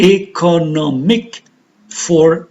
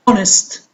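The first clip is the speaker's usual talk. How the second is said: "honest" stressed on HON, the ending light; first-syllable stress. Shown as a demonstration. Teacher showing students where stress falls, "honest" stressed on first syllable. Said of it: "on the first syllable".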